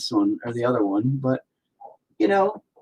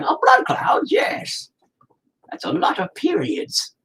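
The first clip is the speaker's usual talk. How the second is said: high mocking shout; mock viewer; 7 semitones higher, slower than usual. Mocking how viewers react to red clouds, high. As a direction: send up a shocked onlooker.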